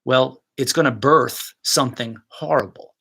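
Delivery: usual speaking voice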